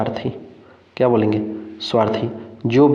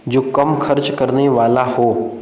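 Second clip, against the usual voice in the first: "जो कम खर्च करने वाला हो" slowly, word by word; slow dictation; slower than usual. Shown as a demonstration. Teacher rereads exam option to students, slow "जो कम खर्च करने वाला हो".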